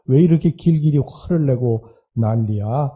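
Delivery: lightly voiced old woman nagging; a hint of a cranky grandma muttering back; grumbling old wife. Deaf wife grumbles at her husband, lightly voiced nagging. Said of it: "할머니가 뒤에다 대고 이렇게 이야기를 합니다".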